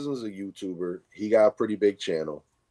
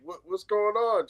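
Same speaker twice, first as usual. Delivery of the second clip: higher, puzzled kid imitation; eleven-year-old daughter; 10 semitones higher than usual. Daughter asks dad about the blackout, puzzled. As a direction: lightly voice a confused daughter. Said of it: "'Cause she's eleven. She's like".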